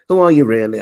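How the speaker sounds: jokey disbelief; mock challenge. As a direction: call the prank out. Suspects his friend is pranking.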